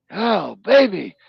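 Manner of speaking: high, loud, slow teasing call; girl calling back across the lake, high, loud, teasing; girl hollering. Retold or imitated. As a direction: tease him with a drawn-out holler. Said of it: "one of the girls hollered out".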